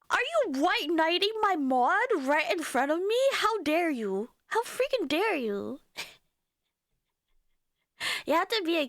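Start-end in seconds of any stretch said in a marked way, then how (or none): 0.1-5.8 gasping, higher, hammed-up indignation; theatrical "how dare you"; mock outrage. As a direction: play the scandalized streamer.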